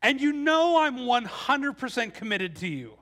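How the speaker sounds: hammed-up husband buttering up his wife; overly sweet husband. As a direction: lay the sweet talk on thick. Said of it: "she's starting to get a little more suspicious".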